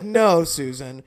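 slow, firm refusal through laughter; laughing no. Retold or imitated. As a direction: shut it down while cracking up.

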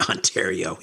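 laughing as he says "Ontario"; a soft laugh on "Ontario"; laughing correction. Real, not acted. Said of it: "or sorry".

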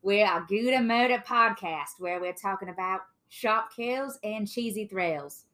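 lightly put-on Australian accent; Australian pelican impression. Host opens a podcast episode on Australia, in a put-on Australian accent. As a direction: greet listeners in a mock Aussie accent. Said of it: "channeling my inner Finding Nemo pelican".

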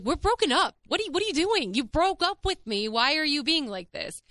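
incredulous high-pitched pushback; exasperated retold confrontation.

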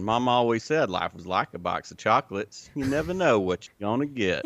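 a light, understated Alabama Southern accent for the famous movie line; Forrest Gump voice. Shown as a demonstration. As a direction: lean gently into the Alabama Southern accent, ending on a small laugh. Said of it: "I'll even give you the Forrest Gump version".

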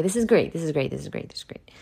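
sarcastic repeat fading to nothing; mock praise dying away. Mocking spiritual books, fading out.

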